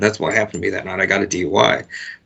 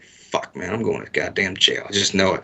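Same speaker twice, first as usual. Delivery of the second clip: resigned muttering; 2 semitones lower, 5 dB quieter than usual. Retold or imitated. Driver to himself as the cop pulls behind, quietly resigned.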